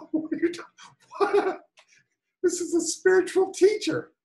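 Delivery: high, laughing incredulity; incredulous laugh at the spiritual teacher; laughing disbelief. Real, not acted. Incredulous reaction to teacher's remark.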